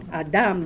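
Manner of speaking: low "Adam", stressed as ah-DAHM; last-syllable stress. Shown as a demonstration. Teacher repeating for the class, "Adam" stressed at the end. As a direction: lean on the final syllable of "Adam". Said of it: "the stress is on the second".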